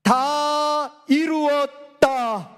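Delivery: very slow solemn cry; it is finished. Retold or imitated. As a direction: draw out each word like a last breath. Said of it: "크게 소리 지르기를". (아주 느리고 장엄하게 외치는 선언)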